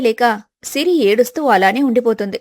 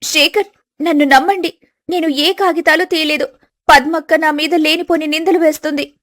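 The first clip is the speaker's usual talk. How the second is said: higher, earnest plea to her husband; pleading young wife; 4 semitones higher than usual. Acted. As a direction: beg him to believe you. Wife begs husband to believe.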